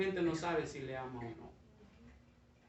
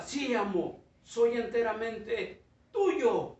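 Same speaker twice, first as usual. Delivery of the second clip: slow, slightly raised pledge; devoted bamboo; 4 semitones higher, 4 dB louder, much slower than usual. Acted. Bamboo pledging itself wholly to the master, slow devoted voice. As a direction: promise yourself fully, drawing it out.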